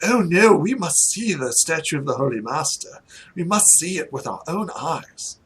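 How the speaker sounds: lightly put-on grand noble voice; insistent well-to-do traveller; eager nobles. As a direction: play a noble set on seeing it. Game master voices eager nobles.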